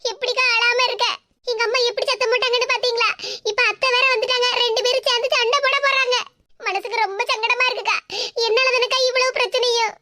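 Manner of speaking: mildly tearful, upset lament. Acted. Daughter-in-law blaming herself for the family quarrel, tearful. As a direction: plead through a touch of tears. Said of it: "Shalini, அழாத".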